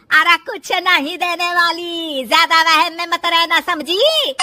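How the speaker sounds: stern, emphatic dismissal; scolding mother-in-law. Acted. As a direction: put her in her place with stretched words. Mother-in-law warns daughter-in-law.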